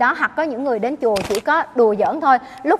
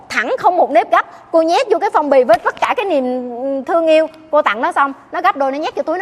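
heated retelling; 3 semitones higher than usual. Real, not acted. Nun tells the congregation of careless students, heated and raised. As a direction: pour out the frustration, voice raised.

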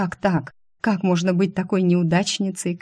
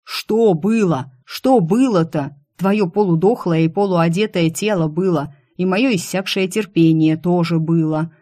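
exasperated yell. Acted. Boss snaps at heroine, exasperated mock yell. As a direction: let out his frustration. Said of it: "И опять как заорёт".

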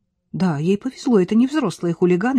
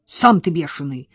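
grumble; 2 semitones lower, 3 dB louder than usual. Acted. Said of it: "буркнула Настя".

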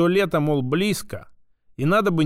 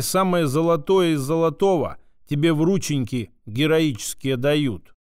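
usual speaking voice

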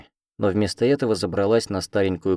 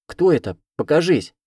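higher and louder, a scared demand; demanding shout; 8 semitones higher, 6 dB louder than usual. A narrator's reading. Frightened girl demanding the unseen voice appear, shouting. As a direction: shout into the empty room to show yourself. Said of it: "потребовала я".

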